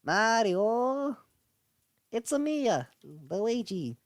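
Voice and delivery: high, loud cartoon Luigi; sing-song it like the cartoon brother. Imitating how Luigi calls for his brother. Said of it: "Luigi is like".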